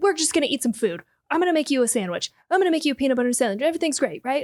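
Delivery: mock panicked, passive-aggressive sarcasm, high and rushed. Complaining about a character's behavior, imitating his panicked, sarcastic tone. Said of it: "it's this like panicked, sarcastic, passive aggressive".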